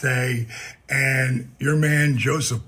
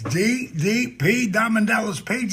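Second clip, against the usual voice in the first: ring announcer; 7 semitones higher than usual. Acted. Announcing himself like a ring intro.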